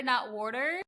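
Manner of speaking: water said with a round aw, wor-ter; Jersey-style water, wor-ter with a round open vowel. Shown as a demonstration. Saying water the Jersey way for a Rhode Island friend. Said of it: "the way I say water".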